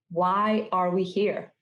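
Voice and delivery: usual speaking voice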